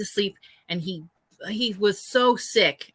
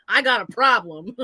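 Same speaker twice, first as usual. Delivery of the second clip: defiant claim. Retold or imitated. Her answer, louder and assertive.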